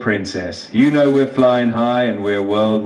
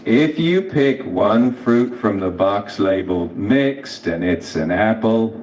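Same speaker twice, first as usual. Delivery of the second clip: slow, easy hillbilly drawl; super slow hillbilly drawl. Shown as a demonstration. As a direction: stretch it out like an unhurried hillbilly. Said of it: "ask me in that super slow hillbilly drawl".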